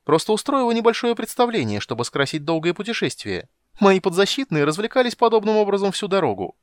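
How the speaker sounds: high, loud, rapid pleading; mock lawyer kender. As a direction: sell the lie to the judge.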